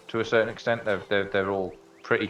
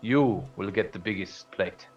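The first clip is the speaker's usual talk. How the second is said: lightly voiced friendly giant; 2 semitones higher than usual. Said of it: "He goes".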